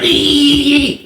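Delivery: imitated wrestler's rope-shaking squeal; high mock war cry held long; drawn-out high "eee". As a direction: mimic a hyped wrestler's "eee".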